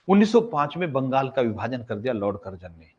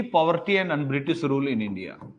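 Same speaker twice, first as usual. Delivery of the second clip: slow dictation; much slower than usual. Shown as a demonstration. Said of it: "पॉवर्टी, गरीबी वाला पॉवर्टी है".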